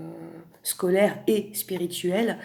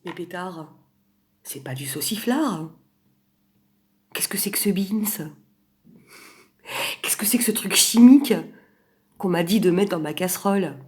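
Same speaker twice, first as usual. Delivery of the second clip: alarmed outburst; 7 dB louder than usual. Pretend. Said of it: "tu vas te dire".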